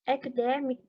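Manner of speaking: "academic" stressed on "dem"; stress on third syllable. Shown as a demonstration. Teacher giving an example for students, "academic" stressed on its third syllable. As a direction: put the weight on "dem" in "academic". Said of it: "so the thread for on the third".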